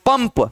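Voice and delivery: पंप with lips closed on a clear म before the final प; m sound. Shown as a demonstration. Teacher showing students which nasal sounds, म in पंप. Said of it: "म का".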